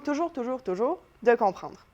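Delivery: "toujours" repeated, each one stressed; emphatic repetition. Shown as a demonstration. Teacher shows what is always demanded, emphatic repeated "toujours". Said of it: "vient mettre de l'emphase".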